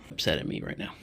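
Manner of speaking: sounds out of breath; breathing audibly through the mouth; breathy. Real, not acted. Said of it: "I apologize for my breathing".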